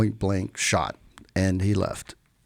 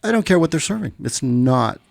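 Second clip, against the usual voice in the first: retold angry outburst; 3 semitones higher than usual. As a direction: replay the irritated rant as a mock outburst. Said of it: "with more profanities than I'm saying it now".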